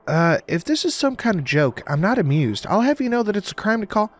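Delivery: put-on offended Southern accent. A narrator's reading. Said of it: "cheerful voice and a southern accent".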